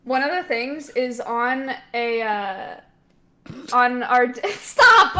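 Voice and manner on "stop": laughing stop, loud and high. Real, not acted. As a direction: burst out laughing while protesting. Laughing plea to friend.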